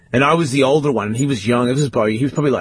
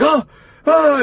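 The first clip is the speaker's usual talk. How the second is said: imitating whimpers; 14 semitones higher, 4 dB louder than usual. Injured brother groaning.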